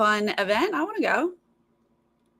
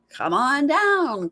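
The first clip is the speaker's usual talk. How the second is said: game show call; 6 semitones higher, 3 dB louder, much slower than usual. Retold or imitated. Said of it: "how they decide who's going to get".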